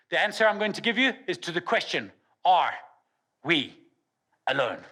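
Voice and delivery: suspenseful keynote demo, with deliberate pauses; dramatic stage speech, spaced out for effect; coached speaker. Shown as a demonstration. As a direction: build up to a big reveal, pausing between phrases. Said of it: "The way I would have coached him if I was speaking".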